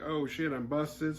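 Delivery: high, drawn-out mock guilt; caught out. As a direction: act caught red-handed, slowly. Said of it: "he's like, kinda like".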